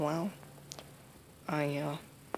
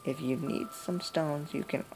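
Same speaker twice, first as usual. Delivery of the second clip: lightly voiced granny, turning grim; a hint of a granny vowing revenge; old grandma voice. Granny warning the player, then grim.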